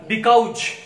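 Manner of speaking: "because" with a ch ending, loud and drawn out; Bihari pronunciation. Shown as a demonstration. Teacher giving a Bihar example, Bihari pronunciation. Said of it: "for example, in Bihar".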